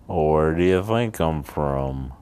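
lightly imitated Texas drawl. Teasing a roommate who asked about home, Texas drawl. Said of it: "in a Texas drawl".

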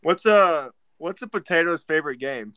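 talking through a mouthful of taffy; chewing sticky toffee. Real, not acted. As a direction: chew candy while you talk. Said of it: "Sorry, I'm eating a".

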